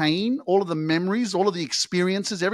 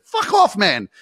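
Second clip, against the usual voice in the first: loud dismissal; 4 semitones higher, 6 dB louder, slower than usual. Real, not acted. Dismissing the haters.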